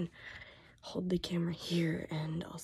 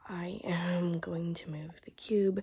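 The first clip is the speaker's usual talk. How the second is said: voice giving out; 4 dB louder, slower than usual. Real, not acted. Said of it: "my voice is about shot".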